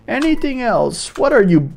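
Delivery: eerie merchant. Acted. Vlad Goldfield the Sandman greeting a customer, eerie and theatrical. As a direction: croon a creepy welcome. Merchant pitches his shop.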